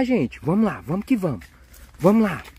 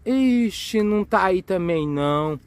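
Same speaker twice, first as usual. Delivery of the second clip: mild letdown; 3 semitones lower, 3 dB quieter than usual. Pretend. Letdown after an empty search.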